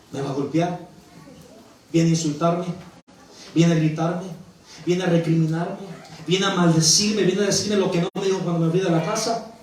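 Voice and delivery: low, hesitant questions rising at each end; a touch of dread, voiced as inner thoughts; pensamientos temerosos del hijo. Voicing the son's fearful thoughts. (temor contenido, preguntándose en voz baja)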